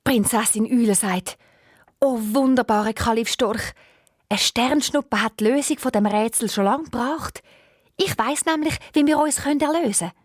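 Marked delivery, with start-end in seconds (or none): 2.0-10.1 lonely owl princess, higher voice, mournful; a sad, abandoned princess voice pitched up; a lonely owl princess complaining of her fate. Acted. Owl princess speaks again.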